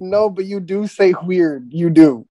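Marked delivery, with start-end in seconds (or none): 1.2-1.7 "weird" mimicked with an H at the front; H before weird. Teasing a friend's habit, "weird" with an added H. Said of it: "words that don't have an H".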